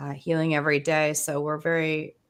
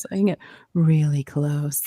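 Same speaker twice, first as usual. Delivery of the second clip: hypnosis voice; 2 semitones lower, 3 dB louder than usual. Shown as a demonstration. Host showing the healers the hypnosis voice, hypnotic. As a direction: slip into a close-mic hypnosis voice. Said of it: "follow my hypnosis voice".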